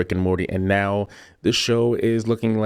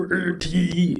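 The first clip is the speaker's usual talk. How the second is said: higher robotic monotone imitation; 10 semitones higher than usual. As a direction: say the name like a stiff AI robot. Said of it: "It sounds like an A I robot going".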